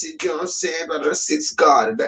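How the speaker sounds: lightly mocked street voice; a rapper in the hood. Mocking how a rapper talks in the hood, lightly street. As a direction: play a rapper acting tough in the hood. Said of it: "he's gonna talk like this".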